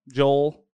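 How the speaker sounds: Joel in one syllable, JOHL; spelled as J-O-L-E. Shown as a demonstration. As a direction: say Joel as if spelt "Jole". Wouldn't that be J O L E.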